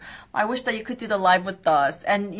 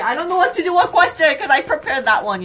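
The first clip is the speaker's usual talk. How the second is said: higher pitch, laughing through the words; flustered laughing; 5 semitones higher, 3 dB louder, faster than usual. Real, not acted. Host laughing at viewers, flustered she forgot the question. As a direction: giggle helplessly while explaining.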